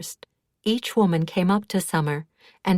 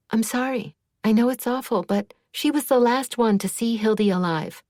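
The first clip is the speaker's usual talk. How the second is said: upset; 6 semitones higher, 3 dB louder than usual. A narrator's reading. Mia upset about Doris.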